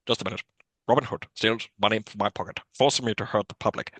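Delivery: a hint of a cold, disdainful sheriff; Alan Rickman impression. Quoting the sheriff to his co-host, a light Rickman impression. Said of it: "Who are you doing an impression of there?".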